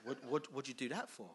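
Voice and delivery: a lightly voiced exasperated mate saying bruv; London slang God. God telling off Moses, lightly voiced as a London mate. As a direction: deliver it as a casual annoyed friend, only lightly done. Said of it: "he didn't say it like this".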